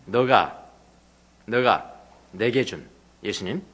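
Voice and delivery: soft, slow Jesus gently questioning; gentle voice of Jesus. Retold or imitated. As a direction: speak as Jesus, slowly and tenderly. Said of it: "예수님께서 그에게 하는 이야기가".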